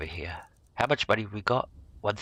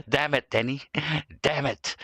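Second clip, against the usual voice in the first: laughing; 5 semitones higher than usual. Real, not acted. Laughing at own slip.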